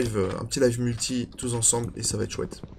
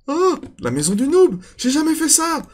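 mocking high voice; 13 semitones higher, 5 dB louder than usual. Mocks his noob house.

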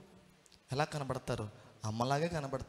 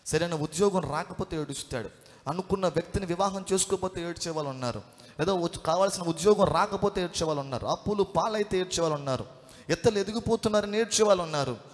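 preacher's list building louder and higher; rising sermon litany; 3 semitones higher, 5 dB louder than usual. Real, not acted. Preacher listing why people weep, building sermon litany. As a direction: build each item in a preaching rhythm.

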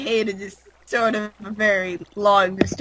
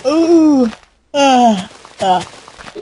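mock awe; 4 semitones higher, 7 dB louder, much slower than usual. Mock awe at sugar cane.

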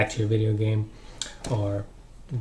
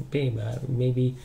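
subtle gentle suggestion. Shown as a demonstration. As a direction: ease the advice in gently. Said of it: "Be more subtle".

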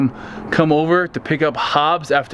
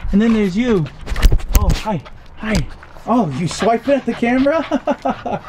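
talking to a dog; 3 semitones higher than usual. Real, not acted. Cooing at the playing puppies.

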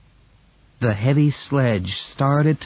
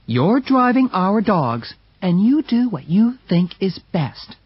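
Mercedes; 8 semitones higher than usual. Acted. Mercedes siding with brother.

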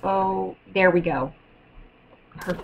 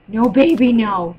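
kissing it better; 4 dB louder than usual. Real, not acted. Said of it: "I'm babying an eleven-year-old".

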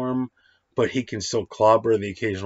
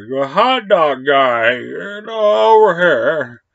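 loud, higher call at a stadium vendor; 6 semitones higher, 9 dB louder, slower than usual. Retold or imitated. Babe calling the hot dog guy over, loud holler. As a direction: holler across the stands.

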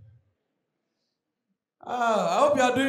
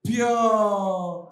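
swaggy hawker call; 3 semitones lower, 3 dB louder than usual. Retold or imitated. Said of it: "Then they will add the swag".

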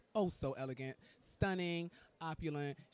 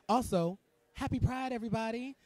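higher and louder, cheering; excited greeting; 7 semitones higher, 6 dB louder than usual. Real, not acted. Host wishing viewers happy Pride, cheering loudly. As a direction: cheer it to the crowd.

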